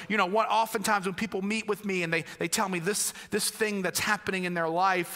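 usual speaking voice

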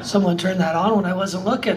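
loud, amused remark through laughter; laughing, caught off guard. Real, not acted. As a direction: joke through a laugh after a start. Laughs off being startled.

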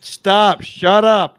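loud, forceful real command; sharp silencing. Real, not acted. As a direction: cut the other person off loudly. Cuts off guest's assurances.

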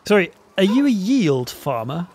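degenerate DeFi guy. Acted. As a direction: play the keen crypto newbie. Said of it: "Who's gonna be the degenerate DeFi guy?".

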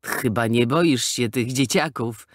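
lightly amused teasing jab. A narrator's reading. Skinny guy teases Mambo about fearing kids, amused. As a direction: tease him, a touch of amusement. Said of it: "rzucił rozbawiony".

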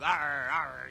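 doglike pirate arr. Pretend. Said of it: "you sound more like a dog".

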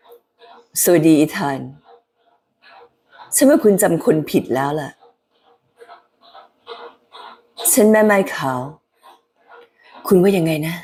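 slow, low sultry whisper; a sexy low voice greeting Ethan; White Widow. Acted. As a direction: purr the lines, low and seductive. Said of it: "เสียงของแม่ไม้ขาวเนี่ยจะเป็นโทนต่ำ".

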